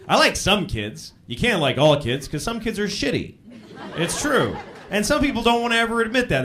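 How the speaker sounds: ordinary talk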